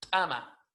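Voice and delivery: "tama" with a struck ejective T; hard glottal T starting "tama"; explosive T. Shown as a demonstration. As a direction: pop the T of "tama" without breath. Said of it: "La palabra correcta es tama".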